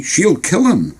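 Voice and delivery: put-on high, curious young boy; eager kid voice. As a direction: ask it wide-eyed. Boy warns.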